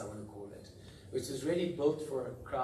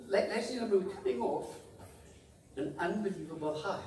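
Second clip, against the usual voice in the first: laughing; 7 semitones higher than usual. Real, not acted. Laughing restart, high pitch.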